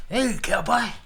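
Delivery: high, loud mock holler; put-on high-pitched shout; playful calling out. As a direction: holler it like hailing a cowboy. Playfully calls out to his cowboy.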